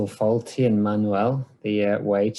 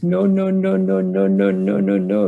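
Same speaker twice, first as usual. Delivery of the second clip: high, loud furious no's repeated; mock furious "no, no, no"; angry no; 9 semitones higher, 3 dB louder than usual. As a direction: retell an enraged refusal, pitched up. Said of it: "the angriest I've ever seen him".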